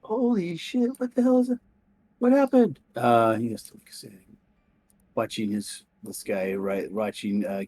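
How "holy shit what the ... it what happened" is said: high, startled outburst; shocked detective. Acted. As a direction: blurt it out in alarm. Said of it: "It's like".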